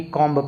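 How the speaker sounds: कॉम्ब with final B sounded; wrong pronunciation. Shown as a demonstration. Teacher shows a learner's misreading, कॉम्ब as spelt. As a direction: finish कॉम्ब on an audible B. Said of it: "यदि आपको ये rule पता नहीं".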